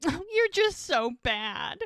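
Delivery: high, teasing "so bad"; mock flirty scolding. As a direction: playfully scold him, flirting. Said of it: "Like, ew".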